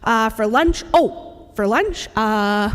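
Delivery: hesitant echo of the question; mild mock of a boy repeating the question; imitating Xavier, stalling. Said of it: "he'll say".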